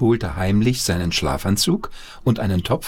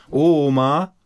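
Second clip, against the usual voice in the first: calling out; 6 semitones higher, 3 dB louder than usual. Acted. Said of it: "rief Paul".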